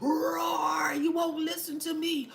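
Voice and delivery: put-on a petty toddler dinosaur throwing a tantrum; mock angry reptile. Mocking angry people as a roaring little reptile. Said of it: "they have the little reptile".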